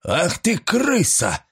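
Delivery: strained hiss. A narrator's reading. Master turns on the spying maid with a strained hiss. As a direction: spit it out like a cornered dog. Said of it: "надрывно прошипел он".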